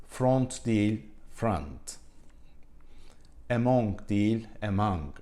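slow contrasting pairs, mispronounced first, corrected second; wrong then right pronunciation. Shown as a demonstration. English teacher to Turkish learners, slow wrong-then-right pronunciation pairs. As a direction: say each English word the wrong way, then the correct native way, slowly. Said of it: "Onlardan birkaç tanesini buraya not aldım".

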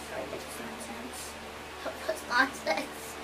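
unvoiced whispered aside; hushed whispered mutter. Real, not acted. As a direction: breathe it, no voice. Whispered aside while gaming.

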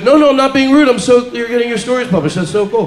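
overselling interest to a bore; fake gushing. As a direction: gush like you care about their stories. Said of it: "Sell it really good".

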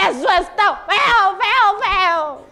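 high, drawn-out mock wail; alarmed chick. Chick hopping like crazy with fright, mock-alarmed wail. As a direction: stretch each repeat high, as a panicky chick.

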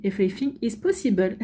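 English with a French accent; French speaker's proud English line; mock-superb English accent. Shown as a demonstration. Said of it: "ce superbe accent anglais".

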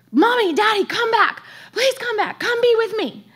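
put-on very high, loud pleading child voice; imitated child's screaming. Son screaming for his parents, imitated high frantic call. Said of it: "and then screaming for us".

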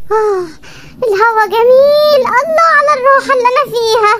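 slow, blissful sighing delight. Acted. Wife relishes the fan's breeze, blissful. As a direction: savour the breeze aloud.

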